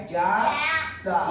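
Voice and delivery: ज्या-चा stretched into two slow syllables; very slow ज्या-चा, each part held. Shown as a demonstration. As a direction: sound out ज्या-चा piece by piece. Teacher sounding out word for class.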